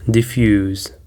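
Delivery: "Diffuse" with the weight on -FUSE; stress on second syllable. Shown as a demonstration. Teacher models the third word for learners, stressed on second syllable. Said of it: "the stress is on the second syllable".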